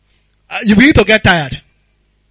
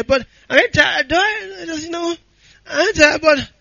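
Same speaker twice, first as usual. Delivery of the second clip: weary prayer; 3 semitones higher than usual. Acted. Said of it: "I get tired too".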